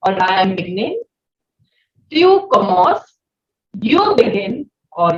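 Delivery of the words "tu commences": "Tu commences" said slowly and clearly; slow model pronunciation. Shown as a demonstration. Teacher drilling French for class. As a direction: spell out "Tu commences" for students. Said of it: "Now you will repeat with me".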